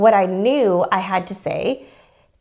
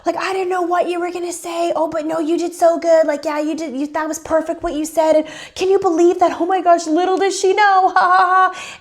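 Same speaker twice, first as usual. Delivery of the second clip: laughing disbelief; 7 semitones higher than usual. Retold or imitated. Him in the car after fooling the woman, imitated laughing disbelief. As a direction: imitate someone gleefully laughing it off. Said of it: "Dan actually starts laughing".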